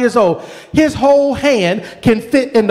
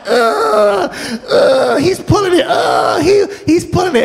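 grunting; 4 semitones higher than usual. Retold or imitated. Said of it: "I can hear him grunting".

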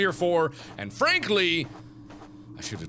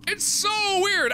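higher and drawn out but less loud; echoed wail; 5 dB louder, much slower than usual. Acted. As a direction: repeat the wail, easing off. Repeated complaint.

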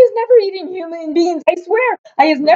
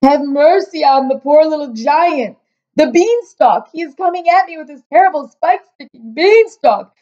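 high, frantic begging wail; screaming for mercy; 8 semitones higher than usual. A narrator's reading. Giant begging to escape the dreamed beanstalk, screaming. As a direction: beg in a high-pitched, terrified cry. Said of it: "screamed the flesh lump eater".

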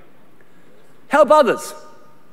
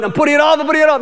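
higher, sing-song excuse voice; mocking procrastinator; 6 semitones higher, much faster than usual. Pastor mocks a congregant putting things off, higher sing-song. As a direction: mimic the lazy excuse. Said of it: "mocking a procrastinator".

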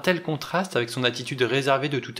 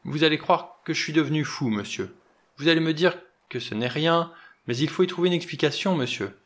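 higher, louder, frightened pleading; frightened stammer; 5 semitones higher, 3 dB louder than usual. Acted. Butler begging the doctor to believe him, frightened. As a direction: blurt it out, scared he sounds mad. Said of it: "Il déglutit avec peine et bredouilla".

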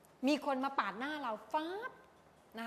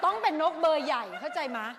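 louder, laughing push for energy; big expressive; 3 semitones higher, 8 dB louder than usual. Shown as a demonstration. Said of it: "มันต้องเป็นนกแบบ".

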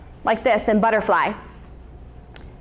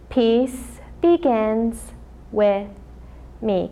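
slow mantra; 2 semitones lower, 3 dB quieter, much slower than usual. Shown as a demonstration. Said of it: "Can you do it with me?".

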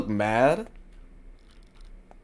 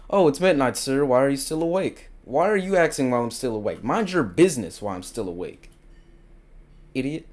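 mocking voice; faster than usual. Mocking the in-game character.

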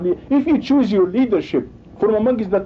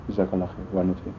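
much softer, lower, a timid brush-off; meek hushed mockery; 14 semitones lower, 9 dB quieter, much faster than usual. Preacher mocking a cowardly ummah, meek hushed brush-off. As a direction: mimic the cowards shrinking away. Community meekly hiding from invaders.

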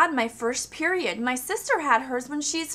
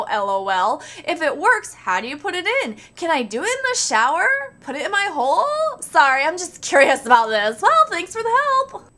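reading as the asker; 4 dB louder than usual. Acted.

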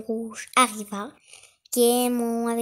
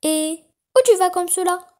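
higher, louder sugary wolf; sweet wolf voice; 7 semitones higher, 9 dB louder than usual. A narrator's reading. Wolf sweet-talks the little girl, higher and louder. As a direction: coax her, sweetly false. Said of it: "d'une voix douce".

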